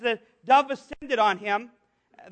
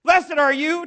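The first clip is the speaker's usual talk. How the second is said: higher, louder proclamation; exalted blessing; 4 semitones higher, 5 dB louder, slower than usual. Acted. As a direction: bestow a blessing with lift. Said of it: "You go from being".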